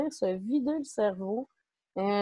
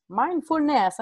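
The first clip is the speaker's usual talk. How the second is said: "mindfulness" said in a careful English accent, a bit higher; 5 semitones higher, slower than usual. Shown as a demonstration. A French-speaking speaker trying out English "mindfulness" in an English accent. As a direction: try the English word "mindfulness" in a proper English accent. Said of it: "j'espère que mon accent est bon".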